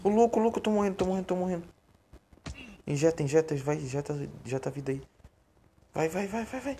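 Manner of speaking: high, frantic panic; urgent, breathless urging; being chased. Real, not acted. Being chased, dying in game.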